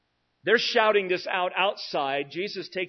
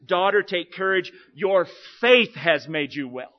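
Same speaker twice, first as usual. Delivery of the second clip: Jesus' words, emphatic; 6 dB louder than usual. Acted. Preacher voicing Jesus' words.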